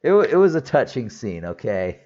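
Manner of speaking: protest, half-laughing, that it really was touching; defensive insistence. Real, not acted.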